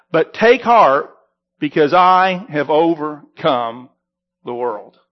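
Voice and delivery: measured, solemn Bible reading; scripture reading. Acted. Reads scripture aloud in service.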